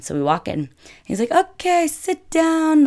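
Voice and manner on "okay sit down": high-pitched, coaxing Italian restaurant host; mock Italian tout, high and insistent; typical Italian man. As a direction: beckon hungry passers-by in, pitched way up. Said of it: "typical Italian man, comes out".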